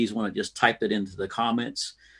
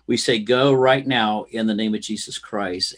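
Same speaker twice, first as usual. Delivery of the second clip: commanding healing prayer; declaring prayer. Acted. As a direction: decree healing over them.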